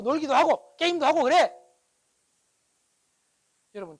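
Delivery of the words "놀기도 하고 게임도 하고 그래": loud, high-pitched supportive urging; emphatic encouragement. Acted. Father telling child to play and game, loud encouragement. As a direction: give permission with rising force and volume.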